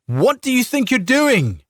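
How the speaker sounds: high furious shout. A narrator's reading. Farmer shouting at the soldier seizing his wife. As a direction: bellow it at the man grabbing her. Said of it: "Ricard shouted".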